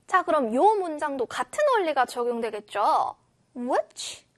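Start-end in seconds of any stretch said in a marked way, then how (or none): 3.6-4.2 "Which" said with an upward glide; rising tune on Which. Shown as a demonstration. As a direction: lift the pitch on "Which". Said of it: "올라가 있고요".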